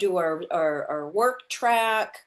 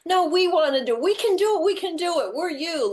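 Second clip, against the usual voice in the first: higher, louder insistent little people; eager insisting; 6 semitones higher, 3 dB louder than usual. Retold or imitated. Little people pleading with God, louder and eager. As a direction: push it like eager kids begging.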